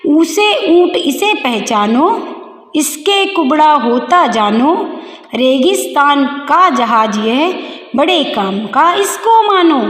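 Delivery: put-on slow, measured children's rhyme; rhyme recitation. Teacher reading the book's rhyme to pupils, slow recitation. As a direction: read it out slowly, line by line.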